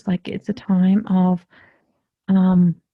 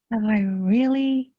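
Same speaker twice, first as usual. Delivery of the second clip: hushed realization; 2 semitones higher than usual. Acted. Seeker waking up to their own truth, hushed disbelief. Voicing someone's moment of awakening.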